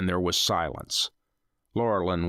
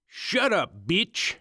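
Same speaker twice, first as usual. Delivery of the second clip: captor snarling; 11 semitones higher, slower than usual. Acted. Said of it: "one captor laughed".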